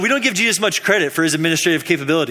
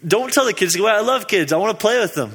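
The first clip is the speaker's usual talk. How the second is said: Jesus played higher and playful, scolding lightly; 5 semitones higher than usual. Jesus telling his disciples to let the kids be, playful higher voice. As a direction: tease the disciples like a fun uncle. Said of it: "And Jesus says".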